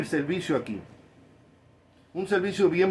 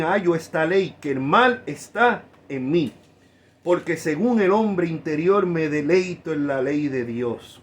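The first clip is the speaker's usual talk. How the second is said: preaching at force; 4 dB louder than usual. Acted.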